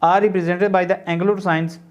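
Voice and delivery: word by word, spelled out slowly for notes; slow classroom dictation of a definition. Shown as a demonstration. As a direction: dictate it so students can write along.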